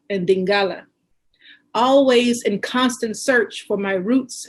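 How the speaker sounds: measured recital with pauses between lines; poetry reading. Acted. Poet reads her mother's poem about roots and culture, measured recital. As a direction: recite it line by line, letting each one land.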